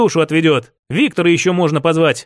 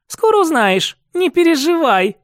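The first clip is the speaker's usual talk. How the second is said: giggling; 9 semitones higher than usual. Acted. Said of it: "захихикала Катя".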